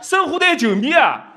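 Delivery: high, loud Shanghainese calling out; Shanghainese dialect. Shown as a demonstration. Comic shows off his dialect, loud Shanghainese. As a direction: call out to a pal in excited Shanghainese. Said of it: "上海话讲得老好".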